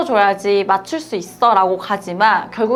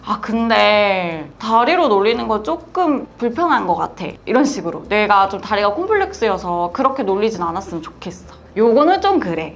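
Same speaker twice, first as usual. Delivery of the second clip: calm and precise. Shown as a demonstration. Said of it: "요런 느낌으로 정확하게, 침착하게".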